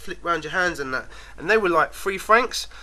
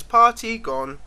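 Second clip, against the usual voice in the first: put-on lightly higher child voice; a hint of the French boy; 4 semitones higher, slower than usual. The French boy's only English, mild child voice. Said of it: "the only word in English he could say".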